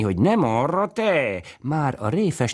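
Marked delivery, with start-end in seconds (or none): 0.2-1.4 put-on very high, slow child's call to the cow. A narrator's reading. Little girl calling the cow Boris away, high cries.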